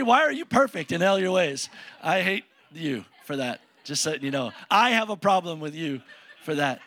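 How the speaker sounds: joking "hate" with a laugh; laughing tease. Real, not acted. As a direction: tease Brady while laughing.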